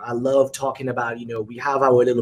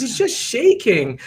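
put-on higher, slow kid voice; plain daughter; 11 semitones higher, slower than usual. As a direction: explain it slowly like a frank child. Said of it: "He goes".

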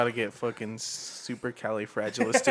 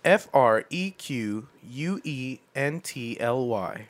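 spelling it out. Shown as a demonstration. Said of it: "The word is frequently".

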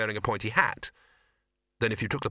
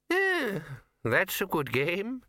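put-on much higher, quavering old voice just woken; startled old man; 8 semitones higher, much slower than usual. A narrator's reading. Poons waking in his wheelchair: high startled old voice. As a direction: jolt awake confused and creaky. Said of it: "said Poons".

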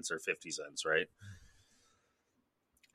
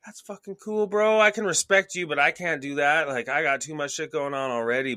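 much higher, hammed-up bro talk; high mock bro voice; 8 semitones higher, 5 dB louder than usual. Talking to a collector with a wall of horror movies, higher hammed-up bro voice. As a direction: play it up like an impressed bro. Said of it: "and you're like".

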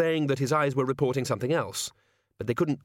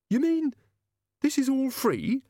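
far higher, pointed challenge; sharp demand. Acted. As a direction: pin him down on the money. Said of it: "said Doreen's mother sharply".

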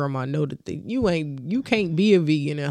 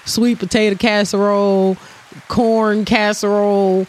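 mock disgust list; 5 semitones higher, 4 dB louder than usual. Real, not acted. Listing casseroles in disgust.

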